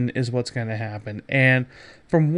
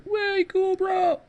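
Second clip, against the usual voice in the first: high, airy Bill and Ted surfer voice; mock surfer-dude drawl up high; 4 dB quieter, much slower than usual. Host quoting Bill and Ted, high surfer-dude voice.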